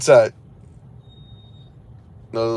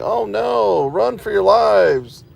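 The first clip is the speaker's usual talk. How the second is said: mock panic; 8 semitones higher, 3 dB louder, much slower than usual. Mocks cops fearing his camera.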